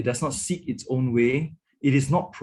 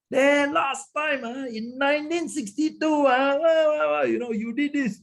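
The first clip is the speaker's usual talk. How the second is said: mock grudge-digging spouse; 4 dB louder than usual. Mocking a partner dredging up grudges.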